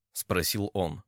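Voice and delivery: usual speaking voice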